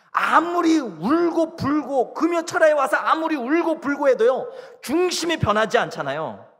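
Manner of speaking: high, loud preaching voice; full-force preaching. Acted. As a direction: drive each point home, pitched high. (목소리를 높여 힘주어 설교하듯)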